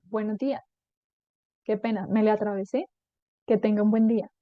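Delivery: defuse it calmly and politely; polite apology. Acted. Polite reply to angry driver.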